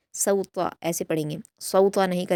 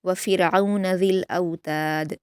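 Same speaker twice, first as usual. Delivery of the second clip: slow, melodic Quranic recitation; measured Quran recitation; tajweed recitation; slower than usual. Shown as a demonstration. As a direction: recite it slowly and carefully as a model for students. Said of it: "रा को बारीक पढ़ा जाएगा".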